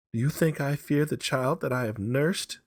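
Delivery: high, loud challenge; mother defending her dead child; fierce defiance. A narrator's reading. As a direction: scorn his fear. Mother defying husband's fear.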